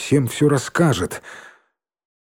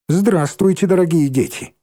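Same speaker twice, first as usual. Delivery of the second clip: higher, hammed-up grown-up greeting; mock teacher greeting; 6 semitones higher than usual. A narrator's reading. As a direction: play the fake teacher. Petka mocks like a teacher. (насмешливое учительское приветствие)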